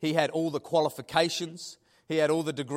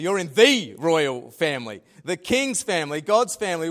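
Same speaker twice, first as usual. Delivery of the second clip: louder, punching the royal family; preacher repeats it louder to congregation, emphatic proclamation; 5 dB louder than usual. Shown as a demonstration. Declare royal family to the church, ringing out loud.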